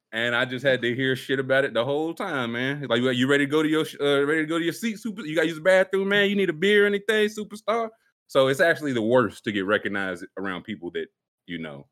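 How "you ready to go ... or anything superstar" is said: pitched up, climbing questions; imitated teasing, higher and higher; mock-fawning teasing. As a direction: needle your friend with pretend pampering. Retells friend needling him as superstar.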